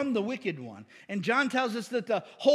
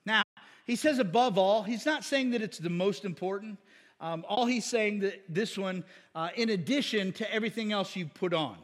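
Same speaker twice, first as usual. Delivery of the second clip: ordinary delivery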